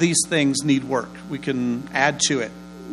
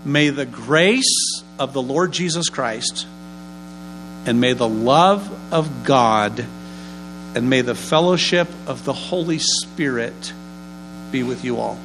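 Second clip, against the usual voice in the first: benediction recital; 3 semitones lower than usual. Shown as a demonstration. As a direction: pronounce it like a benediction. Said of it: "Here we go".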